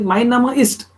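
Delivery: "ist" with the T released clearly; sounded final T. Shown as a demonstration. Teacher showing the needed T at the end of "ist". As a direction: close "ist" on a crisp T. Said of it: "So it has to be t".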